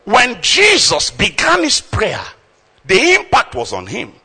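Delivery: rising to a high loud peak; building preaching cry. Real, not acted. Preacher climaxing his sermon before the church, loud and high. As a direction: build it to a roar. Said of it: "preaching building".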